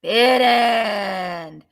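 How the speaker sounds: loud closing shout; shouted call. Real, not acted. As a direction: shout the bid closed.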